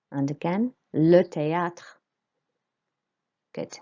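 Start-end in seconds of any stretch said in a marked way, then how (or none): 0.9-1.9 THÉÂTRE repeated clearly, "tay-AH-tr"; louder model of THÉÂTRE, open "ah" on â; French é as "ay" in THÉÂTRE; careful French pronunciation. Shown as a demonstration. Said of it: "A with the accent on the top makes".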